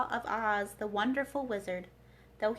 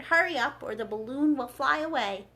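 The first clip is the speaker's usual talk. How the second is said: urgent call, louder and higher; crying out; 3 semitones higher, 6 dB louder than usual. Acted. Oz urges Dorothy to hurry to the balloon, calling out loud. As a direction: call her over the noise of the crowd. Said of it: "cried the wizard".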